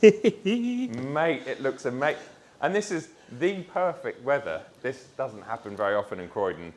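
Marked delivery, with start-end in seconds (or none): 0.0-0.9 excited. Real, not acted. Reveal of the new car.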